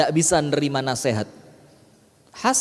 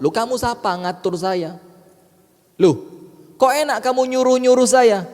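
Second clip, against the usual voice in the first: arrogant retort; 5 semitones higher than usual. Acted. An arrogant man refuses to be ordered.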